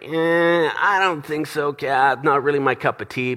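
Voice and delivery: mildly reluctant brush-off; dismissive. Retold or imitated. Brushing off wife's suggestion.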